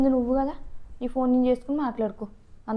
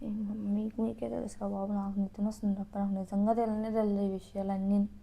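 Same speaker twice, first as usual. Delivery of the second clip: innocent act; 7 semitones lower, 9 dB quieter than usual. Acted. Wife feigning ignorance to husband, sleepy innocent. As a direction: play dumb, sleepy and innocent. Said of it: "ఈ acting చూడు ఎంత బాగుందో".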